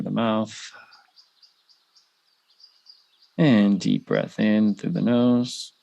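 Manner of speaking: unhurried meditation guide with long pauses; measured guided-visualization delivery, spaced-out phrases. Real, not acted. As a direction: lead listeners gently through it, leaving room to breathe.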